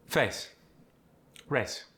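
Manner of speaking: "face" and "race" with a short single vowel, no glide. Shown as a demonstration. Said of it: "shorten it into a single vowel sound".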